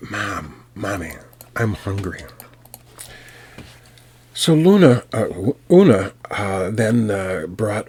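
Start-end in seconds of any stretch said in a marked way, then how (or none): 0.1-2.2 put-on soft, small child's whimper; a hint of a hungry little child; lightly voiced baby. Finn posing as baby, softly asking mother for food. Grown man voicing the baby.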